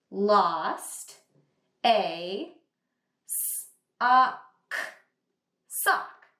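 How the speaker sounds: each word stretched out sound by sound, then said whole; segmenting then blending; tapping out sounds. Shown as a demonstration. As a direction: sound out every word slowly. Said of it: "Let's tap out the words".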